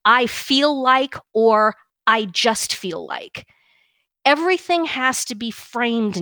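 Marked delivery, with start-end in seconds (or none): 0.0-1.2 slow, drawn-out imitation of a tentative opener; mock verbal tic. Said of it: "with the verbal tick". 2.1-3.5 slow, drawn-out imitation of a tentative opener; mock verbal tic. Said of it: "with the verbal tick".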